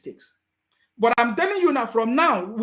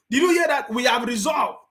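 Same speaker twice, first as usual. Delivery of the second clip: excited; 3 semitones higher than usual. Real, not acted. Excited over played clip.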